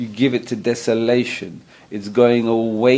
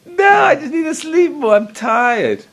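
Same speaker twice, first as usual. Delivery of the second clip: squeaky pleading tempter; Yetzer Hara voice; 6 dB louder than usual. Acted. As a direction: play the lazy inner voice begging to stay in bed. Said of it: "that's your Yetzer Hara".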